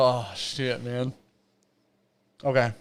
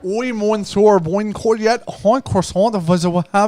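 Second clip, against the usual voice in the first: louder, hammed-up fake French accent; over-the-top French accent, louder; mock French accent; 5 semitones higher, 5 dB louder, slower than usual. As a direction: ham up a bad French accent for laughs. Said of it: "read that in the most French accent you could muster".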